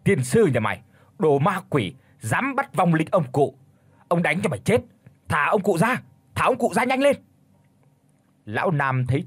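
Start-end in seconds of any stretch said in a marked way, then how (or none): 0.0-4.8 angry cursing, getting higher. Acted. Đào cursing the demon, angry and rising. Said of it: "miệng thì liên hồi chửi". 5.3-6.0 raised angry demand. Acted. Đào yelling at the demon, angry. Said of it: "miệng thì liên hồi chửi". 6.3-7.2 frantic yell. Acted. Đào screaming at the demon tree, frantic. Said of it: "miệng thì liên hồi chửi".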